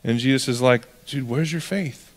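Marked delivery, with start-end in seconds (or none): 1.1-2.0 softly voiced mild rebuke; gentle chiding. Jesus asking frightened disciples about their faith, gently chiding. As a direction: drop the volume and chide gently.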